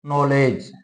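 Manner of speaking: नॉलेज said with an open rounded ऑ, as in knowledge; example word. Shown as a demonstration. Teacher giving students an English loanword, said precisely. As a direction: say नॉलेज carefully, the vowel between आ and औ. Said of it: "जैसे हम कहते हैं".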